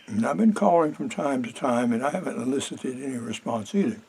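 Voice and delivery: talking while munching; chewing between words; mouth full. Real, not acted. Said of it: "Excuse me, I'm munching".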